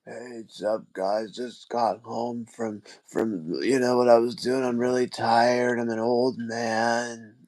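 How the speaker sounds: put-on slow, tired old man drawl; lightly voiced weary old man. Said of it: "that was a very concerning impression of an old man voice".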